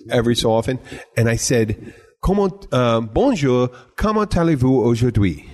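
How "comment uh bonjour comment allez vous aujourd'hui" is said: tourist French phrase, said carefully; French greeting in a halting English accent; attempted French. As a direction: try your best schoolbook French. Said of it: "And I said that like that".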